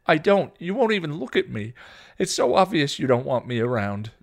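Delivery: loud, high accusation; insisting. A narrator's reading. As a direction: insist bitterly in a quarrel. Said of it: "Dawn insisted".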